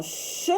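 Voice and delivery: "ch" as a lone hushing sound; son isolé. Shown as a demonstration. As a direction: give just the sound "ch", not the letter names. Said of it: "ça me donne le son". (le son « ch » prononcé seul)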